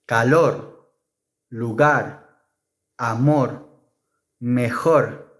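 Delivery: calor, lugar, amor ending in a single tap; soft r. Shown as a demonstration. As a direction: finish each word on a light tapped r. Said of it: "the soft R is always pronounced".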